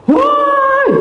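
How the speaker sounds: high-pitched yell, imitating the intruder; retold shout. Intruder yelling outside at night, mimicked high shout. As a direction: yell it out sharply, far above your own pitch. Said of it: "ada yang teriak-teriak".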